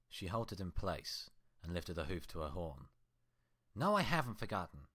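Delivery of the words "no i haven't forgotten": a louder curt snap; snapped. Acted. Twilight snapping back at her twin, curt and annoyed. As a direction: cut her off irritably. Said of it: "she snapped".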